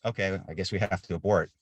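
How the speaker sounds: understated, even acceptance; retold matter-of-fact resignation. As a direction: say it matter-of-factly, as routine. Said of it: "just matter of factly, I said".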